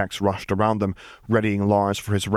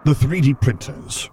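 higher, louder, slow blunt reply; 6 semitones higher, 4 dB louder than usual. A narrator's reading. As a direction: state it bluntly. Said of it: "answered bluntly".

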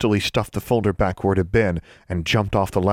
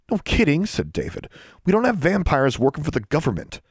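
put-on wry boy; 8 semitones higher than usual. David quips.

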